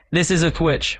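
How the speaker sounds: a hint of classic New Yorker; New York accent. Shown as a demonstration. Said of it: "And in a New York accent".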